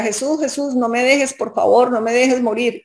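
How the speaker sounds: retold tearful plea. Dreamer begging Jesús not to let her die, retold pleading. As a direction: imitate a desperate plea, held in check. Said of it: "yo gritaba y lloraba y le decía".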